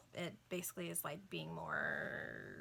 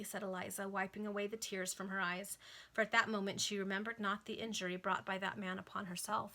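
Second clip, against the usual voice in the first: measured, lilting novel reading; formal audiobook-style narration; story narration. A narrator's reading. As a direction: read it out like an old serial. Reads a novel aloud.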